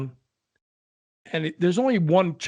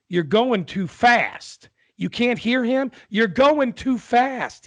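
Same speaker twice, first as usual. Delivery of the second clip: put-on higher, louder, slow old husband; old husband's voice; 9 semitones higher, 4 dB louder, much slower than usual. Old husband to deaf wife in car, loud slow. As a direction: bark it slowly at a deaf wife. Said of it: "With accents and all".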